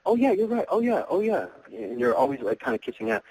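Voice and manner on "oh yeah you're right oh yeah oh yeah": high, eager agreeing voice; mock a guy who agrees with everything; eager yes-man. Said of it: "So when you're always agreeing".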